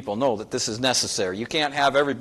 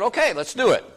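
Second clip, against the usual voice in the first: bright and eager, higher pitched yes; eager agreement; 10 semitones higher, 4 dB louder than usual. Retold or imitated. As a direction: jump in eagerly, voice lifted.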